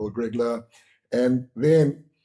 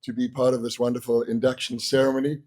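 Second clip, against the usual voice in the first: lost voice, rough and strained; hoarse voice. Real, not acted. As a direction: speak through a worn-out hoarse throat. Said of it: "As you can hear, I've lost my voice".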